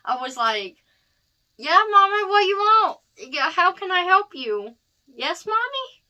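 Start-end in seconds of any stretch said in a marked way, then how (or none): 1.6-6.0 high, loud squeaky cartoon alien; high, loud Stitch voice answering mom. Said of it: "I'm gonna use Stitch voice".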